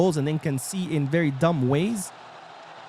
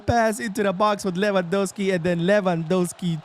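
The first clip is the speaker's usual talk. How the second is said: excited commentary; 8 semitones higher, 5 dB louder than usual. Real, not acted. Excited commentary right after goal.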